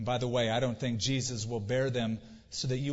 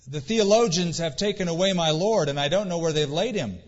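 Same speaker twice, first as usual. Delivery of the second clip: imagined plea; 3 semitones higher, 6 dB louder than usual. Pretend. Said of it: "she might ask".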